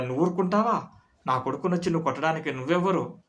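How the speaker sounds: a touch of anger, retold; mock angry retort. Father challenges the friend, mild mock anger. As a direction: hit back at the friend, mildly heated. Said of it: "అని అన్నాను కోపంగా".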